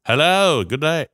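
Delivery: attempted Australian accent. Shown as a demonstration. Host copying the Australian guest's greeting, poor Aussie accent. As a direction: have a failed try at sounding Australian. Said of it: "I can't do that".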